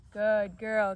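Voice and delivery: very loud, drawn-out praise; lavish praise. Real, not acted. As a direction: praise the dog at full volume. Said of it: "lots and lots of praise".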